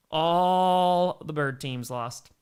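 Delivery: very slow, mournful repeat; slow glum echo; drawn-out lament. Real, not acted. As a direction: stretch each word like a dirge.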